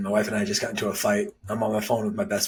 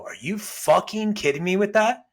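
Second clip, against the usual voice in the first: higher, indignant retort; retold angry outburst; 10 semitones higher, 3 dB louder than usual. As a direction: call her out in front of everyone. Confronting mother-in-law at dinner.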